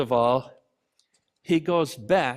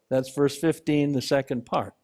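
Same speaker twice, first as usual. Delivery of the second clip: ordinary talk, nothing marked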